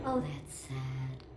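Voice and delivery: mock sympathy. GLaDOS fakes sympathy.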